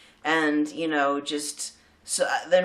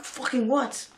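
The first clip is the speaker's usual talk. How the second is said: a higher-pitched stunned mock exclamation; mock disbelief; 8 semitones higher, slower than usual. Metalheads reacting to a singer's arrival, mock disbelief. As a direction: act floored by the news.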